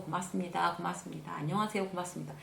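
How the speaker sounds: demonstrating automatic, routine courtesy; habitual thanks. Shown as a demonstration. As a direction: softly reel off polite thanks. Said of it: "막 습관적으로".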